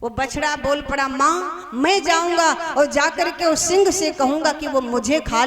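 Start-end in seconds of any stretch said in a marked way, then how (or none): 1.1-5.4 earnest calf pleading, raised and louder; higher, forceful offer of self-sacrifice; earnest plea. Acted. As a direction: insist to mother, pitched up.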